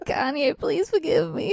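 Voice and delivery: hammed-up plea for mercy, rising high at the end; mock pleading. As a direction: beg forgiveness in mock dread. Mock plea after dead-bird curse.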